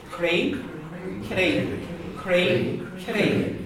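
Cree with a slender front K. Shown as a demonstration. Teacher showing the word for heart. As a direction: say Cree with the tongue forward. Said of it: "This is a slender C".

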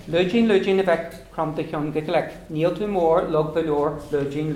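recited like a counting rhyme; children's rhyme. Shown as a demonstration. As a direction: chant it for the kids. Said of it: "a wee poem that the kids do in school".

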